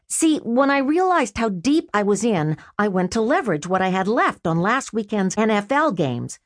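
lightly voiced brother making excuses; Freddy's voice. Brother excusing his lost bet to his sister, lightly voiced sheepish.

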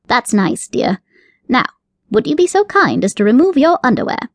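a fussy rabbit, pleased with himself; genteel rabbit with a sly wink in the voice; prim rabbit. Acted. Rabbit character voice.

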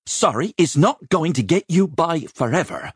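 put-on high, scolding older woman; mock-fierce dragon of a mistress; cross growled scolding. A narrator's reading. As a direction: tell the boy off sharply, pitched high. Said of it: "Rachel growled".

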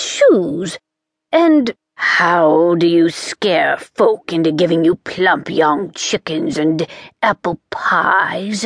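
put-on slow relishing old witch; lightly voiced nasty grandmother witch; wicked old witch. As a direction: savour each cruel trick slowly. Voices old deep witch Truda.

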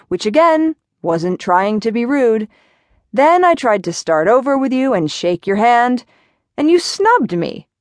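increasingly indignant complaint, voice going up; exasperated rant. Acted. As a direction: pitch climbs as his frustration boils over. Jimmy rants about being snubbed.

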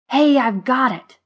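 high, loud bright idea; grinning. A narrator's reading. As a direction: announce your brainwave with a grin. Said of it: "Grinning, he added".

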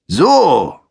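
a long stretched "So", high and loud; drawn out. A narrator's reading. Sergeant eyes the forbidden book, stretched and sneering. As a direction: stretch the "So" out, mocking. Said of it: "meinte der Sergeant gedehnt".

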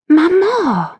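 shocked, high, loud protest; outraged cry. A narrator's reading. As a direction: cry out in disbelief.

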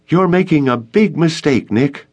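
high, sharp angry snap; snapped. A narrator's reading. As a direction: bite the words off at him. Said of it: "Gloria snapped".

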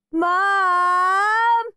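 high, loud, drawn-out yell; shouted. A narrator's reading. Peter calls for his mum to intervene, shouting. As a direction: holler it long and high for a parent. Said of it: "shouted Peter".

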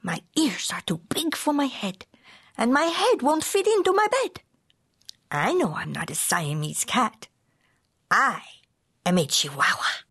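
put-on light Spanish accent, opening in a whisper. Kitten pretending to be a Chihuahua, lightly put-on Spanish accent. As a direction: play a kitten putting on a hint of Spanish accent. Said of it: "using his very best Spanish accent".

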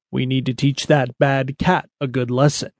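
a hint of a deep old stallion. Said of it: "he said in his very deep voice".

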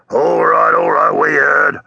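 grudging, put-out cabbie brush-off; ungrateful. A narrator's reading. Driver dismissing the sailor's repeated answer, ungratefully. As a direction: cut him off with sour impatience. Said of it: "said the driver ungratefully".

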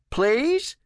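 high, rising little plea; pleading question. A narrator's reading. Old man begging for a coke, pleading upward. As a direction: ask sweetly high, pitch climbing to the end.

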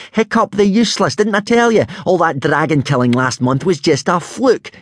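high-pitched gloating taunt; gleeful crowing. A narrator's reading. Rival belittles Hiccup's dragon killing, crowing gleefully. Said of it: "crowed Snotlout gleefully".

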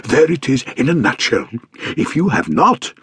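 high, emphatic genial gentleman voice; pompous stout man. Acted. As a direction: lecture her like a jovial fat man. Stout man lecturing governess.

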